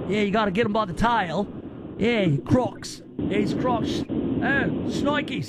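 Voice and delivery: put-on lightly done Australian accent, Steve Irwin style; a hint of Australian croc-hunter. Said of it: "he talked like this".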